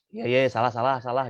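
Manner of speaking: put-on a child mumbling sorry just to end the scolding; grudging sulky admission. Child to angry parent, brushing off the blame impatiently. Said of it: "nadanya gimana, intonasinya gimana".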